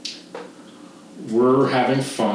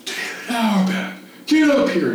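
high, carrying shout across the campus; retold scream; 10 semitones higher than usual. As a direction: call him out in front of everyone.

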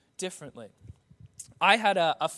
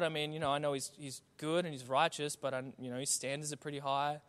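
discouraged believer; 4 semitones lower than usual. Retold or imitated. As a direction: mumble it like someone who's given up on God. Voicing a discouraged, distant believer.

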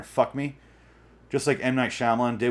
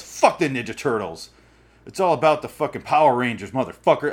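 mock angry rant, building louder; a stranger ranting louder about Power Rangers; angry guy; 4 dB louder than usual. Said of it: "This guy's very angry".

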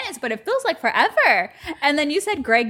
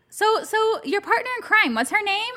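dentist voice; 9 semitones higher than usual. Retold or imitated.

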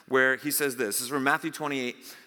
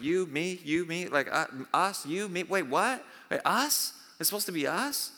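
Roxbury-style confusion; 3 semitones higher than usual. Retold or imitated. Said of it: "a Night at the Roxbury moment".

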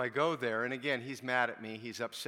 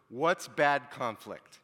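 emphatic question; 7 dB louder, much slower than usual. Real, not acted. Question put to the audience.

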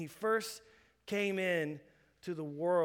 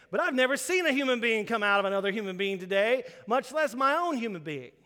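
louder and faster, building wonder; impassioned retort; 3 semitones higher, 5 dB louder than usual. Retold or imitated. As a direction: press the point to the doctor. Imagined rant to the doctor.

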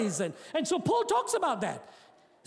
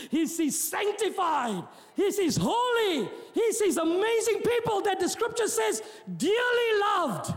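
exultant preaching; 6 semitones higher than usual. Real, not acted. Preacher proclaiming how God sees us, exultant. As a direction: build from measured to high proclamation.

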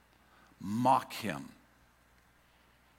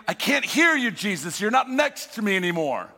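anxious calling; 4 semitones higher, 4 dB louder than usual. Retold or imitated. Disciples calling to Jesus.

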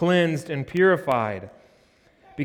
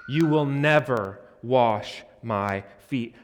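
indignant Peter; 2 semitones lower than usual. Acted. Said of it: "he's indignant".

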